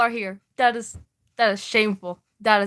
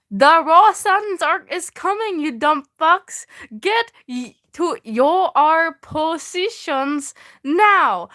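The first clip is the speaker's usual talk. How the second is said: higher, louder mock barked order; hammed-up lieutenant yell; 5 semitones higher, 4 dB louder than usual. Reading the lieutenant's order in the fanfic, hammed-up yelling. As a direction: play the shouting officer, over the top. Voicing lieutenant screaming in fic.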